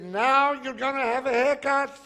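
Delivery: hammed-up outraged surprise; incredulous retort. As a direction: throw it back at him, amazed. Incredulous speaker in retold joke.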